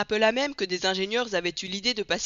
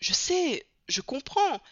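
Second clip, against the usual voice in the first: protestation pressée; 8 semitones higher, slower than usual. A narrator's reading. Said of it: "répétait Passepartout".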